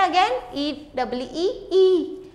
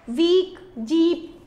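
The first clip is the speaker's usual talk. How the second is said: वीक and जीप with long ई; long vowel; 2 semitones higher, 3 dB louder, much slower than usual. Shown as a demonstration. Teacher comparing words for children, वीक and जीप drawn out. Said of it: "ई का long sound आ रहा है".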